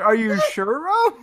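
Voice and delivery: high, skeptical mock voice; lightly voiced squeaky doubt; high teasing impression of his own doubtful question. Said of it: "I was just sitting there like".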